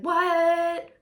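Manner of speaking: high confused what; puzzled what; surprised. Retold or imitated. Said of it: "You're like".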